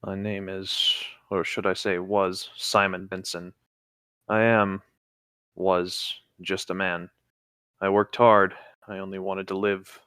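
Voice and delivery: a lightly acted trapped survivor, reading steadily; reading a Fallout lore log aloud to a friend, somber. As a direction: read the survivor's diary entry gravely. Reads the signature of the log.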